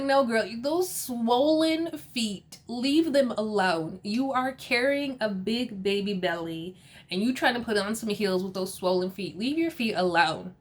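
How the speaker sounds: mock scolding. Giselle telling pregnant Ashley off about heels, mock scolding. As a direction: imitate a friend scolding, stretching the key words.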